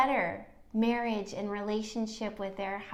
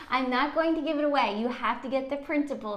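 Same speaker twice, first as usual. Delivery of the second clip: higher, louder and fast, playfully coy; playful tease; 6 semitones higher, 5 dB louder, faster than usual. Real, not acted. Host teasing listeners about the printable, playfully coy. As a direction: keep the secret with a grin.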